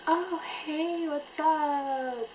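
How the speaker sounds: high, sing-out hello; imitated gushing greeting. Imitating Gina greeting her namesake.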